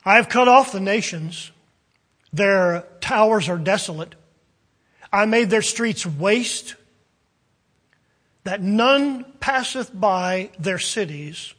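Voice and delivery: weighty prophetic reading; scripture reading. Acted. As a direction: read it like prophecy from the pulpit. Reads Zephaniah aloud.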